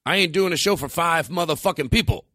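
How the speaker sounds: a hammed-up diva refusing to perform; mock angry rant. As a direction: fake outrage over the crowd size. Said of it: "I act mad and I'm not".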